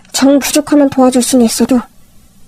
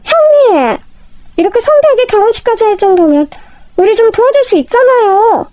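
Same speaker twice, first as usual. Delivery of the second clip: higher, whiny begging sister-in-law; pleading sister-in-law; 8 semitones higher than usual. Acted. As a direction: beg the rich elder sister-in-law for help.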